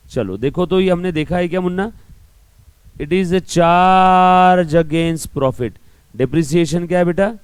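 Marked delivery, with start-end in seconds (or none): 3.0-5.7 word by word, slow and loud, for notes; slow dictation. Shown as a demonstration. Teacher dictating the definition to students, slow and loud. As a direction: dictate it slowly so students can write.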